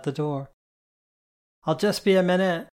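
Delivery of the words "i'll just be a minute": bellowing. A narrator's reading. Road Rash calling up from downstairs, bellowing. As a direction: call it out, higher and louder. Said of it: "Road Rash bellowed from down the stairs".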